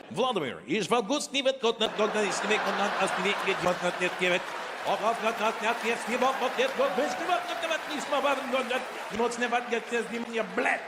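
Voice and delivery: high fake Russian gibberish; mock Russian. Comedian mocks how Russian sounds to him, high fake Russian gibberish. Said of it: "I like listening to people speak Russian".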